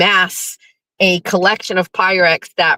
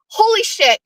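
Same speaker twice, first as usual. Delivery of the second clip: much higher, thrilled; high excited exclaim; 12 semitones higher than usual. Retold or imitated. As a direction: shriek it in delight. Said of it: "And I was like".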